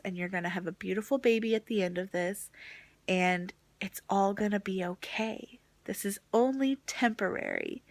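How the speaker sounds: quietly soothing, retold; nice, comforting. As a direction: reassure someone who is falling apart. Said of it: "she was just so nice about it".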